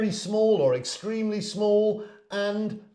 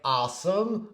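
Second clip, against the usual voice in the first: American AWESOME with an open "ah"; American accent. Shown as a demonstration. Teacher comparing for learners, American accent. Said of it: "whereas an American person might say".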